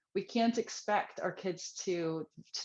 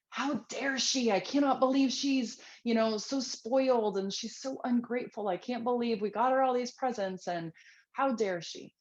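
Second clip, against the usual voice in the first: raised, indignant inner rant; mock outraged parent; 4 semitones higher than usual. Parent fuming over ungrateful child, indignant mock rant. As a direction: voice a parent's spoiled-kid outrage. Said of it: "like, blood boiling or rage inside you, thinking".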